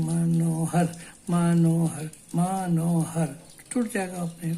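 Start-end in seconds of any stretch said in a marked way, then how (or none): 0.0-3.3 मनोहर said a little slower, syllables apart; teacher slows मनोहर so it breaks apart; slowed down. Shown as a demonstration. Gently slowed syllables. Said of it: "लेकिन जरा सा उसको slow कर दीजिए".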